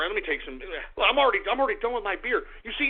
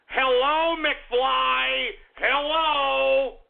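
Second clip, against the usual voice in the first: taunting; 4 semitones higher, much slower than usual. Acted. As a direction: rub it in their faces. Taunting trolls who doubted crypto.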